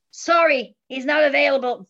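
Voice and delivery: badly faked American phone brush-off; bad American accent. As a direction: put on a poor American accent. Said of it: "that's a really bad American accent".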